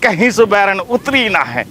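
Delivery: low, slow grumble with pauses; weary grumble. Acted. Old husband complaining about his wife, low slow grumbling. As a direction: grumble slowly and low, phrase by phrase.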